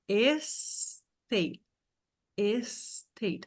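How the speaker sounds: Estate with an extra syllable at the start, es-tate; English pronunciation. Shown as a demonstration. Teacher contrasting Estate with state for students. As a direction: say Estate with the es- clearly in front. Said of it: "uma sílaba a mais no começo".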